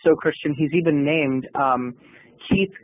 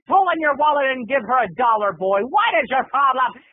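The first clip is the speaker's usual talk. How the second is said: scolding big brother; 6 semitones higher than usual. Retold or imitated. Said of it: "I was talking like that".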